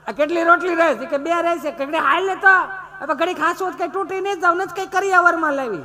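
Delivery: high, loud scolding with laughs; wife and husband bickering over rotis, hammed-up; mock quarrel. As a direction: snap back at the spouse, hammed-up.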